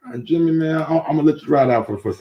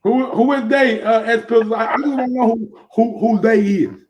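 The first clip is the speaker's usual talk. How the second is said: incredulous rant; 6 semitones higher than usual. Real, not acted. Host ranting at rumor spreaders.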